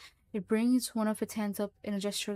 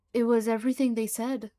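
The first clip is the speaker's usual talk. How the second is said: louder, frightened pleading; fearful; 2 semitones higher, 8 dB louder than usual. Acted. Frightened creature explains itself to Mullins, louder. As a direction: blurt it out in fear. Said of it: "fear in its voice is apparent".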